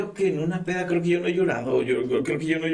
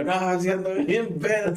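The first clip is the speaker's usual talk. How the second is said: put-on slow drunk admission; 4 semitones higher, slower than usual. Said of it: "Y yo".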